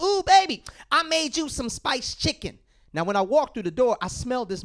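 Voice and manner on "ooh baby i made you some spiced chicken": wife's sweet voice. Retold or imitated. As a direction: coo it like an excited wife. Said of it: "She's like".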